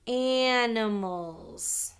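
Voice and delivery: "animals" very drawn out; sounding out slowly. Shown as a demonstration. Teacher dictating the last word to pupils, sounding it out slowly. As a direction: stretch every sound of "animals".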